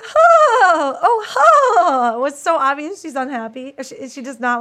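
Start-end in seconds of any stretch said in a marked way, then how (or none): 0.0-2.2 high, loud forced laugh, imitating her; mock a fake, strained giggle; hammed-up fake laughter. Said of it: "She keeps doing a really fake laugh".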